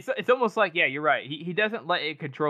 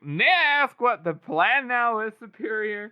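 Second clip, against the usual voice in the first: higher, slow mock-polite query; put-on deference; 7 semitones higher than usual. Casca asking his superior for the plan, mock deferential. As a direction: draw the question out like a dutiful underling.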